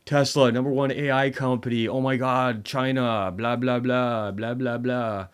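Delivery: loud, high-pitched imitation of gushing fans; mock hype. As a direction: parody an overexcited crowd, running on into blahs. Mimicking hyped-up Tesla crowd.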